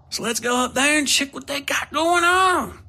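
rowdy shout egging his partner on; eager shout. A narrator's reading. Wickless urging Coakley to go.

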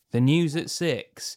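formal news anchor read; newscaster voice. Pretend. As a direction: announce it like the evening news. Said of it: "I'm going to read in a pretend newscaster voice".

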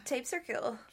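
flat robotic monotone. Shown as a demonstration. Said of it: "robot voice".

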